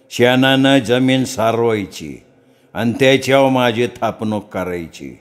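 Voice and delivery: slow, drawn-out trance speech; possessed priest. Acted. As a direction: speak slowly as the goddess in him. Possessed priest lists demands. (घुमत बोलणारा भगत)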